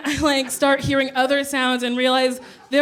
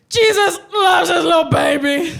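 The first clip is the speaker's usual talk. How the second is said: put-on louder, higher laughing drunk proclamation; drunk shout; 4 semitones higher, 4 dB louder than usual. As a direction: announce it to an empty terminal. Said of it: "I say to nobody".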